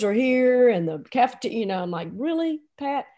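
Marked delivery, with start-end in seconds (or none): 2.1-3.0 higher, disbelieving question; mock disbelief. Coach to wife interrupting his presentation, disbelieving. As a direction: question it as if put out.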